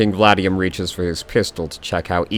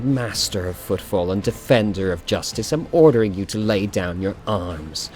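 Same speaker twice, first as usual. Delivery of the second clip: cold fury. Acted. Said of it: "furious gaze".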